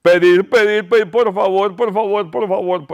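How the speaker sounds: rapid repeated pleading; insistent begging. Shown as a demonstration. Preacher showing what begging means, insistent pleading. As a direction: pile up the pleas without a break. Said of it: "¿Saben lo que quiere decir rogar".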